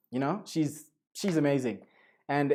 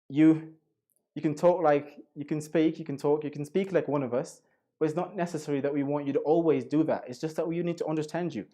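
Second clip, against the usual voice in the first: badly faked British accent; attempted British accent. Shown as a demonstration. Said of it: "Very bad accent".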